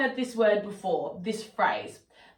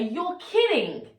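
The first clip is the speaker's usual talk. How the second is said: positive disbelief; 3 semitones lower than usual. Shown as a demonstration. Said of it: "maybe something positive has happened".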